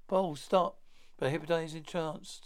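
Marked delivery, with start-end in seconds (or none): 0.1-0.8 urgent shout. Acted. Brother shouts a warning.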